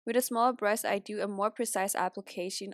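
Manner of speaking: stuffy nose from a cold; blocked nose. Real, not acted. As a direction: talk with a congested nose. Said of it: "so I sound very congested".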